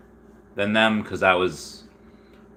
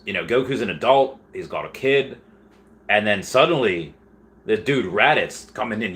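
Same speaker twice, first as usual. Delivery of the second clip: put-on Australian accent. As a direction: tell the story as a mock Aussie. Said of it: "gonna go back to English now".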